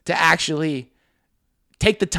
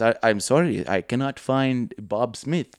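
Hassan; 4 semitones lower, 4 dB quieter, slower than usual. Retold or imitated. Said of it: "and he goes".

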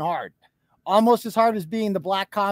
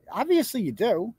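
pointed rebuttal; 3 semitones higher than usual. Real, not acted. Streamer rebuts a man denying he knows her, pointed. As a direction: swing up on OBVIOUSLY to contradict. Rebutting his claim, said twice.

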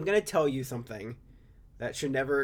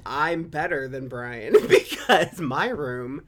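laughing; 6 dB louder, slower than usual. Real, not acted. Laughing while boasting.

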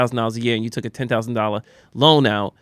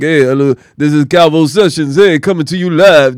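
sultry Telemundo voice; 6 dB louder than usual. Retold or imitated. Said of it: "with the sultry, uh, Telemundo voice".

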